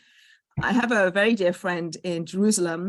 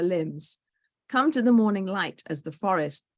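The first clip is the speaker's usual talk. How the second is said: story narration. A narrator's reading. Host reading a friend's tree fable to the poetry night, story narration. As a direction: read it aloud like a children's tale.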